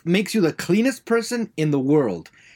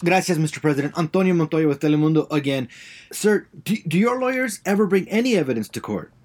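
put-on Spanish accent; 2 semitones lower than usual.

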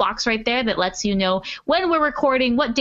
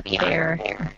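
glitchy robotic connection; choppy robot-like audio; 3 semitones lower, 5 dB quieter than usual. Real, not acted. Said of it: "you sound like a robot".

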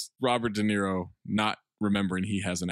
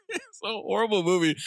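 higher, laughing-edged restatement; worked-up repeat; 10 semitones higher than usual. Real, not acted. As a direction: push it up, amused and worked up.

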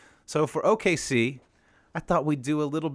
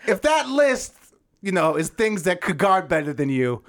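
lightly voiced comedian punchlines, higher and slow on the setups; Jeff Foxworthy bit; 6 semitones higher, slower than usual. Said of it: "This is my impressions".

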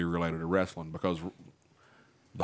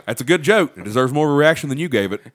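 scolding comedian; 4 semitones higher, 6 dB louder, faster than usual. Retold or imitated. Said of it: "He goes".

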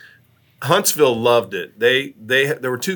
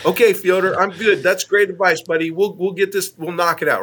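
humouring reassurance; 6 semitones higher than usual. Retold or imitated. Humouring Fyodor's repeated advice.

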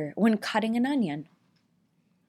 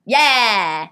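burp on command; 5 dB louder than usual. Shown as a demonstration. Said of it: "Do it".

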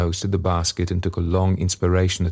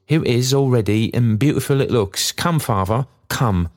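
higher, eager calling; cheerful summons; 5 semitones higher than usual. A narrator's reading. Daughter summoning father to dinner, cheerful eagerness. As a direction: coax him over to the meal brightly. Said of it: "her cheerful summons".

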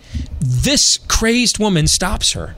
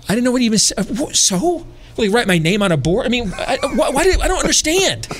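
much higher, laughing in disbelief; baffled incredulity; 7 semitones higher than usual. Retold or imitated. Answering the woman's threat, incredulous and laughing. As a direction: play it baffled, half laughing at the absurdity. Baffled retort, mock confusion.

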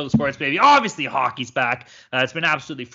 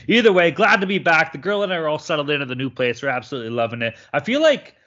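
big hall echo; 3 semitones higher, 3 dB louder than usual. Real, not acted. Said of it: "you sound a little bit echoey".

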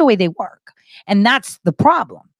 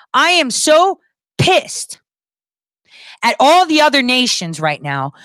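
angry; 4 semitones higher than usual. Real, not acted. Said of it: "I'm very angry".

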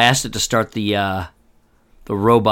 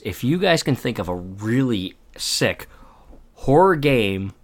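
whisper; slower than usual. Acted. Hushed tease to audience.

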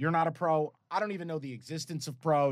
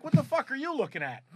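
high, mock-annoyed retelling; retold snap at dog; 9 semitones higher than usual. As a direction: replay the moment like you're fed up with the dog. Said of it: "And I'm like".

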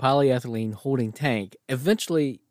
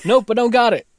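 dismayed soldier; 10 semitones higher, 6 dB louder than usual. Retold or imitated. Acting soldier missing ball.

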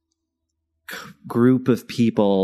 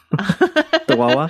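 mock squeaky question; 4 dB louder, much slower than usual. Joking about Pennsylvania habits.

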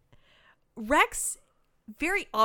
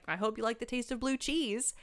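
casually tossed-off imitation; mildly offhand, retold nonchalance; nonchalant; 2 semitones higher than usual. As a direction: say it as if it's no big deal. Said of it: "he's just very nonchalantly is".

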